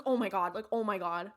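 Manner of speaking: mildly freaked-out impression; lightly voiced panicking YouTuber; a touch of melodramatic shock; Shane Dawson. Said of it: "Why did I make her sound like Shane Dawson?".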